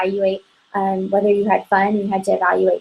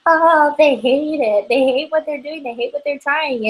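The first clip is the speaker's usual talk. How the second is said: insecure worry; 5 semitones higher than usual. Retold or imitated. Consultant imitates insecure thoughts at a party, mildly anxious. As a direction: imitate a nervous consultant doubting herself. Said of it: "we just are so insecure".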